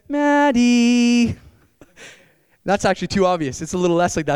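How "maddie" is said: a loud calling-out of "Maddie" to the wife; loud nacho call. Shown as a demonstration. Calling the wife to make nachos, loud and obvious. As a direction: call "Maddie" out loudly across the house. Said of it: "it'll sound kinda like this".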